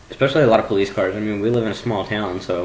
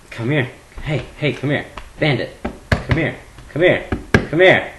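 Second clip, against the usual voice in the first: calling a pet; 3 semitones higher than usual. Real, not acted. Calling the cat Bandit to come over. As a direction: call the cat over, more insistent each time.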